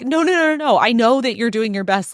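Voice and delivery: high-pitched run of hurried denials; urgent reassurance. Acted. Boyfriend telling girlfriend she is not to blame, urgently reassuring. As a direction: rush in to soothe. Acting Brian reassuring apologetic Christy.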